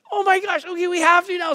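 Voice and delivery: hammed-up caving father; mock defeated dad. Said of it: "I'm like".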